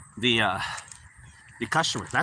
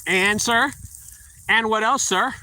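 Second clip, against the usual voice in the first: higher, teasing push for more; smug prompting; 5 semitones higher, slower than usual. Retold or imitated. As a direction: fish for the compliment with a smirk. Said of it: "What a cocky attitude I had".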